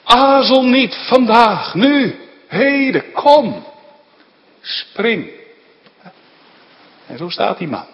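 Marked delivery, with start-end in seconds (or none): 0.0-5.3 loud, higher urgent calling to people at the windows; urgent firefighter shout. Retold or imitated. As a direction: yell to them to jump now. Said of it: "die brandweerman zegt". (dringend roepende brandweerman, luid en hoger)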